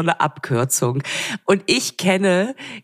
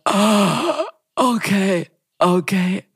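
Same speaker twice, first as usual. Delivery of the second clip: begeistert staunend; 3 semitones higher, much slower than usual. Pretend. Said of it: "dass ich sagen würde".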